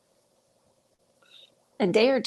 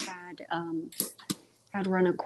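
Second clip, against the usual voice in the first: stuttering. Real, not acted. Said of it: "I think that's why I'm stuttering".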